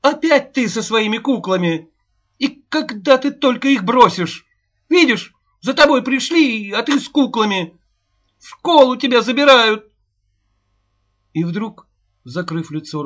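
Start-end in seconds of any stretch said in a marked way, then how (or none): 0.0-9.9 put-on high, loud scolding shout at the child. A narrator's reading. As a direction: yell at her in rising distress. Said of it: "закричала". (кричит на дочь, громко и надрывно)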